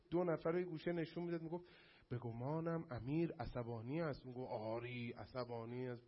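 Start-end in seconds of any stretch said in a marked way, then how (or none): 2.1-6.1 a hint of stiff, overacted film dialogue, lower; mock exaggerated actors. Teacher mocking film actors' over-explained line. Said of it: "اگزاجره".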